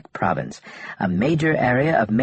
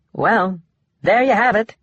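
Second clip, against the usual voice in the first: through gritted teeth; 9 semitones higher than usual. A narrator's reading. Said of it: "the reporter said through gritted teeth".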